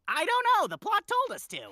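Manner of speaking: very high, loud character voice; Test Tube voice. Acted. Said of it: "can Jazzy do a test tube impression".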